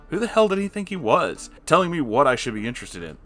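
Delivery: ordinary delivery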